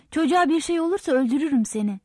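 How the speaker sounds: quick, angry threat; narrated angry outburst, fast. A narrator's reading. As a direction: threaten in a rush of anger. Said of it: "Alkiviadis kızgınlıkla".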